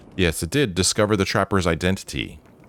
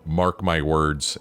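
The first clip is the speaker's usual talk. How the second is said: mocking quote; 4 semitones lower, much slower than usual. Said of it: "Have you ever in your life said".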